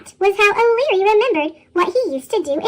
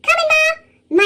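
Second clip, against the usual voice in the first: put-on high, drawn-out boy's call; high-pitched answering call; calling back; 11 semitones higher, 4 dB louder, slower than usual. A narrator's reading. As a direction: holler back to Mum, stretched out slowly. Boy answers his mother's call.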